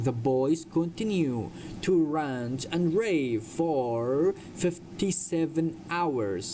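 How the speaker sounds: slow, deliberate sentence for learners; slow model reading. Shown as a demonstration. Teacher reads a story sentence to English learners, slowly. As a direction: draw each word out for students.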